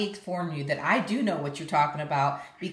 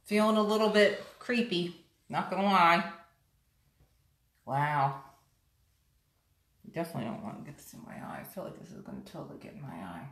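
face covered by wet mask; talking with mask on lips; speaking through a sheet mask. Real, not acted. Seen 0: Wet sheet mask covers her whole face; mouth opening left free.

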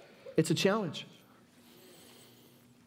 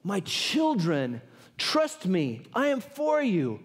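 slow, weighty, tender appeal; measured fatherly assurance; God to his children; much slower than usual. Acted. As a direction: speak as God, unhurried and deliberate. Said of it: "God is saying this".

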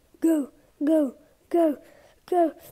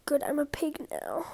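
whispering; 7 dB quieter than usual. Real, not acted. Hiding, whispers.

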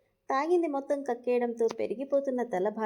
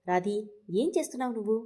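quick, impatient demand; faster than usual. Acted. Husband fed up with his drunk wife, impatient and fast. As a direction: rush it out, fed up with her. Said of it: "అసహనంగా".

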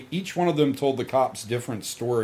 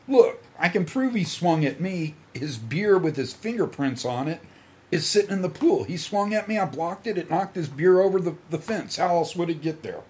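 higher-pitched, insistent self-defence; retold protest; 5 semitones higher than usual. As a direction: replay arguing your case to the cops. Retells arguing his case to cops.

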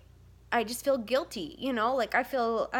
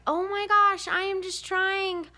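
exasperated; 8 semitones higher, slower than usual. Retold or imitated. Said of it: "it's just like".

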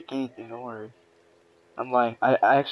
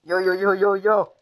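yelling chill; 3 semitones higher, slower than usual. Real, not acted. Being attacked in game.

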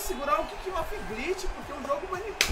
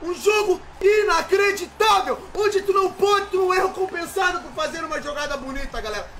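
raging gamer; 5 semitones higher than usual. Real, not acted. Gamer ranting about the game.

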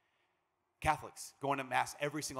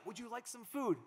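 higher, sweet hostess voice; a future mother-in-law keeps pressing her son's fiancée to eat; mother offering; 9 semitones higher, 4 dB quieter than usual. Retold or imitated. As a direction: play the eager mother-in-law.

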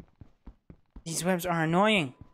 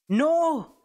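panicked no; 10 semitones higher, 5 dB louder than usual. Real, not acted. Mob attacks him.

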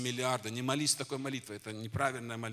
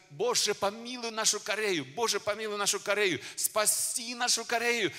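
shouted prayer; 8 semitones higher, 4 dB louder than usual. Retold or imitated. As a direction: cry out to God for Korea. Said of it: "мы кричали". (громкий протяжный молитвенный крик)

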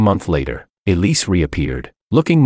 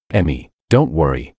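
gentle comfort; 4 semitones lower than usual. Acted. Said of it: "I comforted her gently".

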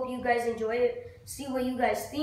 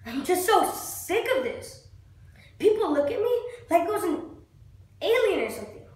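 fed up; 4 semitones higher than usual. Acted. Acted monologue, fed up.

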